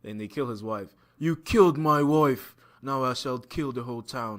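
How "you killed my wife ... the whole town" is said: slow, stately mock British Dracula; a light British villain voice, slow; lightly voiced British Dracula swearing revenge; British accent. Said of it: "Try that accent again".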